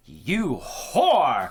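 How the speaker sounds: loud, swooping diva outburst; mock diva yelling. Host plays Michael as a diva at a woman, mock yelling. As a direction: shriek it like an offended diva, for laughs. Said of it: "Fucking yelling at her".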